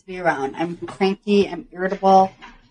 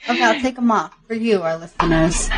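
teeth whitening strips. Real, not acted. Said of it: "do you have teeth whitening strips on".

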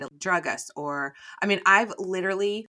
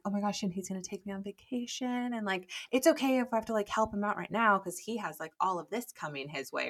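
put-on 3 lightly play a girl falling for it; 4 hushed, starry-eyed mock excitement; 1 mock gullible girl; 3 semitones higher, 5 dB quieter than usual. Mocking gullible girls.

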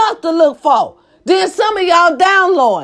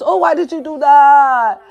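mock victim. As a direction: imitate an oversensitive victim, stretching the last words. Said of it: "y'all victims".

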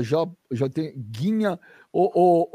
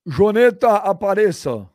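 raised voice calling a name; 4 semitones higher, 5 dB louder, slower than usual. Real, not acted. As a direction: call out loudly for someone. Calling partner on live audio check. (chamando em voz alta)

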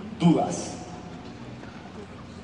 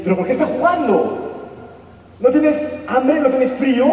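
a higher, puzzled voice for the hungry wolf; curious wolf; 5 semitones higher than usual. Acted. Hungry wolf asks the playing dog, higher and puzzled. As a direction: ask it like a starving wolf who can't understand play.

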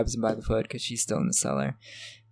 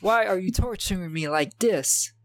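Ash impression; 7 semitones higher than usual. Ash crying out at the demons, hammed-up anguish. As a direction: wail it higher in hammed-up protest. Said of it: "That's how he says it".

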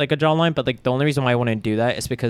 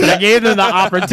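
mock defensive; 5 semitones higher, 5 dB louder, faster than usual. Defending himself playfully.

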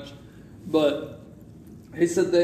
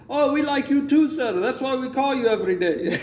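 higher, laughing through the words; laughing scammer; 8 semitones higher than usual. Retold or imitated. Scammer teasing the caller, laughing. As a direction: joke while laughing.

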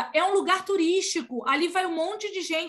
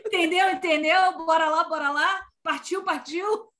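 imitating doubled words. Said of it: "Tudo ele fala em dobro".

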